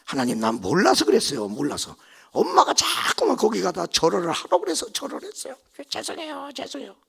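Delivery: earnest pleading, rising and falling; pleading apology. Retold or imitated. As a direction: beg forgiveness like a sinner caught. Pleading apology to God retold. (간절히 비는 목소리)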